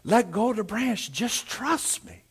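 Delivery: soft, coaxing Lord; hushed, patient divine voice; God's voice from above. Acted. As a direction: repeat it gently, slowing at the end. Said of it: "the Lord said".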